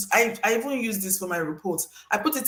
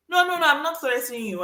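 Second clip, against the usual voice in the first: hasty protest; 5 semitones higher, faster than usual. Acted. Acts reminder sender protesting innocence.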